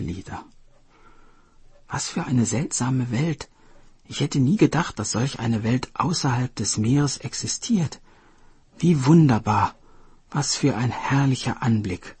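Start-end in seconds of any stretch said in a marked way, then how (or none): 1.9-12.2 a touch of wonder, mildly raised; marvelling. Acted. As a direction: gaze around in wonder. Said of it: "Staunte die Schildkröte".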